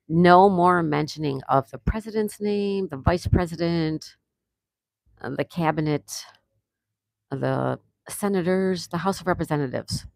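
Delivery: stern firm warning. Real, not acted. Banning politics from the chat.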